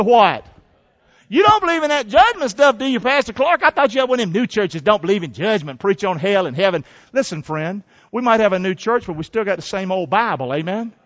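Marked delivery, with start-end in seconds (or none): 1.3-6.8 mildly mock a churchgoer's challenge; lightly voiced skeptic. A skeptic needles Pastor Clark about judgment, lightly mocking.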